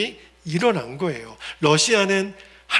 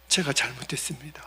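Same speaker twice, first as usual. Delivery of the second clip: soft unvoiced confession; ashamed whispered apology to the elder; contrite whisper; 5 semitones lower, 8 dB quieter than usual. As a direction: whisper the apology, head bowed. Elder kneels asking forgiveness.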